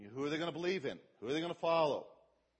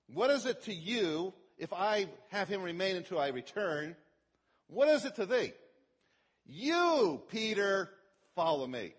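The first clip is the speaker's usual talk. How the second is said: Jesus rebuking Peter, higher and louder; strong correction; 4 semitones higher, 6 dB louder than usual. Acted. Jesus correcting Peter about John, loud and forceful. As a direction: correct him firmly, climbing to a cry on You. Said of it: "a very strong correction".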